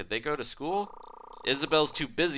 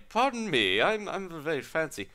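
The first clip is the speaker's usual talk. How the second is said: hammed-up higher Australian lady; Australian accent; 7 semitones higher, 3 dB louder than usual. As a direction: attempt a fancy Australian lady, badly. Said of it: "Can't do a lady Australian accent".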